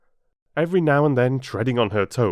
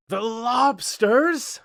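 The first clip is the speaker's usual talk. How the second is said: higher, louder, slow excited shout; Griffin shouts; 13 semitones higher, 6 dB louder, much slower than usual. A narrator's reading. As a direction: shout it, leaping into the air. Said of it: "shouted the Griffin".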